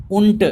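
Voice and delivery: Und said as unt, hard t at the end; German und. Shown as a demonstration. Teacher repeating und for the class, final t. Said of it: "It is pronounced as t, not d".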